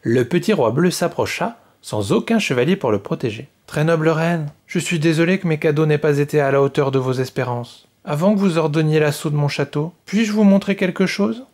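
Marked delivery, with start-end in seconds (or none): 3.7-11.4 slightly raised, careful request; polite cautious little king; cautious plea. Acted. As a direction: approach the angry queen carefully. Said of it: "demanda-t-il prudemment".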